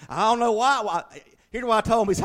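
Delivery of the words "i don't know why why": high, loud, excited retelling of a baffled salesman. Retold or imitated. Salesman can't get the car to crank, loud and baffled. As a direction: throw up your hands, mock puzzled.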